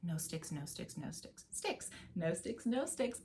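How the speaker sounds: softly whispered no sticks on the rests; quiet rests. Shown as a demonstration. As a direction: drop almost to a whisper on each no sticks. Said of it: "you have a pattern going".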